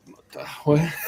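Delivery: high-pitched mock bewilderment; baffled reaction. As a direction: act out being thrown by what you just heard. Acts out baffled reaction to accent.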